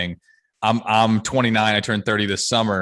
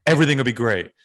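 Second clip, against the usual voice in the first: whiny pessimist; 5 semitones higher, 3 dB louder than usual. Retold or imitated. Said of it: "the pessimism of, like".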